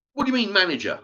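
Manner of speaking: high-pitched imitated question; mock baffled worker. Worker puzzled by the demand, in mock high voice. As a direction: ask it high, mimicking his bafflement. Retold worker answering the screaming.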